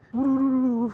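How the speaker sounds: sharp high yelp at the cold; startled cry; surprised exclamation. Real, not acted. Cold shock on the road.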